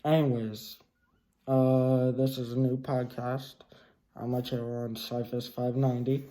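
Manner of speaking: muffled behind a mask; talking through a cloth mask; through a face mask. Real, not acted. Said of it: "Sorry about the face mask".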